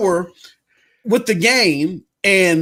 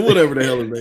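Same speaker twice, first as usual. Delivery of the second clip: mock accent; 3 semitones lower, faster than usual. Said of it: "I can't do the accent like that".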